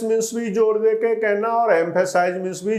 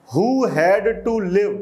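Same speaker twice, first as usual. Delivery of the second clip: slow dictation reading; much slower than usual. Shown as a demonstration. Slow reading of the English text.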